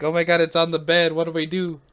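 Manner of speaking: mock panicked screaming. Caller with an alligator on the bed, imitated panic.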